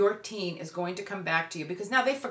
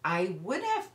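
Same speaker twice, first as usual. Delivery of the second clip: calm, even and measured; calmly. Shown as a demonstration. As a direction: keep it steady and calm. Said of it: "You just calmly say".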